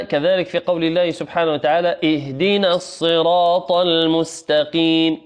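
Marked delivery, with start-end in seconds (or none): 2.0-5.2 slow chanted recitation; tajweed chant; Quran recitation. Acted. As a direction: recite the verse slowly and melodically.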